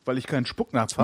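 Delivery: slightly tipsy speech. Real, not acted. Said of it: "Man hört so ein bisschen".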